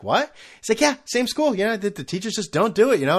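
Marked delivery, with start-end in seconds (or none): 0.0-0.3 higher, puzzled questioning yelp; clueless teen reply. Retold or imitated. Son missing his father's sarcasm, puzzled. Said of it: "I'd be like". 0.8-3.2 high-pitched mock agreement; sarcastic dad. Father mocking son's excuse about teachers, sarcastic. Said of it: "not picking up on the sarcasm".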